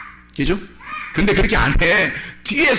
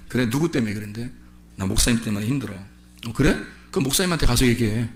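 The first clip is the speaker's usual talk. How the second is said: right answer; 9 semitones lower, 5 dB quieter than usual. Retold or imitated. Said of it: "뭐라고 하셔야 돼".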